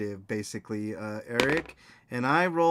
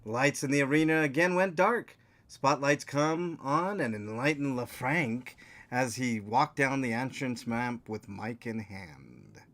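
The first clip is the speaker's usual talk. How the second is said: story narration. A narrator's reading. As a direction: read it out like a storyteller setting the arena. Reads the scene setting aloud.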